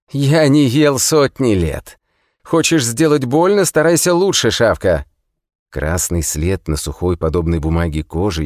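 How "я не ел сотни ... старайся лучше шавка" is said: loud, high, jeering prisoner; defiant taunt. Acted. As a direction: spit defiance at the guard. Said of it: "лишь снова расхохотался". (громкая дерзкая насмешка)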